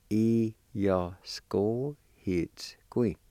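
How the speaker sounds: "E, ya, s, ko, hits, gui" still split up; slow, short gaps. Shown as a demonstration. Teacher repeating for practice, slow with short gaps. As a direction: separate each syllable of "E, ya, s, ko, hits, gui" briefly. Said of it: "practice and go slow".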